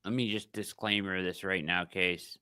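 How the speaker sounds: talking with a swollen face; words slurred by a sore jaw; after dental work. Real, not acted. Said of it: "I had dental work done today. My face is swollen".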